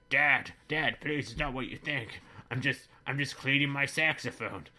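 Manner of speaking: put-on frightened boy caught out, pleading; pleading son. Father voices pleading son.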